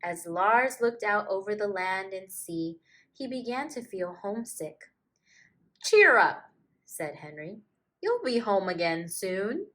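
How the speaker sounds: put-on gentle storybook reading to children; story narration. A narrator's reading. Storyteller reading a picture book to kids, gently. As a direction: read it like a bedtime picture book.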